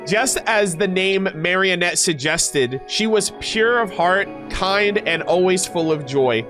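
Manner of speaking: deliberate story reading; lore narration. Acted. Streamer reading how he still addressed her, measured narration. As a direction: narrate with careful, lifted phrase openings. Reads character lore aloud.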